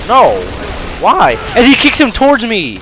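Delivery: real high, loud yell of protest; outraged shout. Real, not acted. Gamer as enemy gets kicked towards them, outraged shouting. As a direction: cry out in exasperated disbelief at full volume. Player outraged at game mishap.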